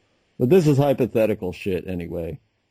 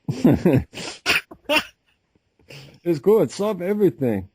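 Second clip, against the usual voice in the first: mock Chinese accent; 9 semitones higher, slower than usual. Friend imitating the wife selling a cure in a Chinese accent. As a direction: ham up a Chinese herbal seller's accent. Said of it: "That's a great accent".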